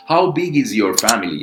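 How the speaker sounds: slowly spoken model question; slow model sentence. Shown as a demonstration. Teacher models the question slowly. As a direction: say it slowly so students copy. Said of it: "model sentence".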